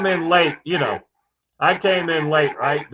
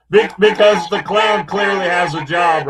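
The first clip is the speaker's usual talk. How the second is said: loud, laughing sarcastic jab; mock him through laughter, loud; 7 dB louder than usual. Real, not acted. Mocking laugh after joke.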